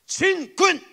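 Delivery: high, loud army cry; imitating soldiers' forceful greeting; imitated military salute. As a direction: belt out the unit's salute. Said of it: "이러는 거야".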